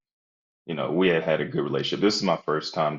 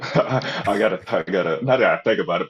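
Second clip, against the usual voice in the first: laughing; 4 semitones higher, 8 dB louder than usual. Real, not acted. Laughs recalling the job offer.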